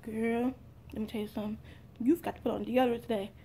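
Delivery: soft, hushed voice of Jesus leaning in; a quiet mock whisper in her ear; a hint of a secret being passed in church; retold whisper. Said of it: "Jesus whispered in my ear".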